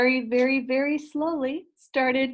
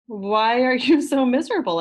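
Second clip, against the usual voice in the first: curious question; 2 semitones higher, 7 dB louder than usual. Acted. Characters voiced in read story.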